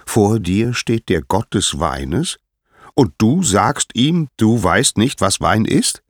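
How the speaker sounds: hammed-up affront with swooping pitch; feigned indignation. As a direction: build from offended to loud, high incredulity. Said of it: "heuchelte Dionysos Empörung".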